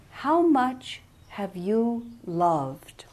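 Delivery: slow, breathy whispered question; gentle whisper. Retold or imitated. Jesus asks the young man in a slow whisper. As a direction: whisper it slowly, as if from beyond.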